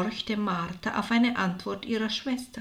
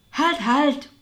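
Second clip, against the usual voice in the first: raised, louder cut-in; interrupting; 4 semitones higher, 7 dB louder than usual. A narrator's reading. Martha stops her sister's chatter, interrupting loudly. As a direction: break in firmly to stop the story. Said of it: "unterbrach Martha die Erzählung ihrer Schwester".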